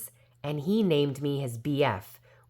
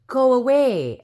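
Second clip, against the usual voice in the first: sudden high, loud shout; fairy screaming at the princess to keep out; yelled warning; 10 semitones higher, 9 dB louder than usual. Acted. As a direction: yell at the girl to get away. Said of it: "Edna yelled".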